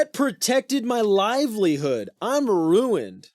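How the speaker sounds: slow, high, loud mock wail; anguished host. Host mourning the dog that guarded his living, anguished. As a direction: lament with hammed-up despair.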